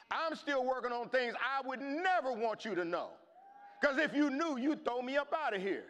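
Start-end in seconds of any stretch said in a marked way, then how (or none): 3.8-5.8 laughing. Real, not acted. Laughing at own confession.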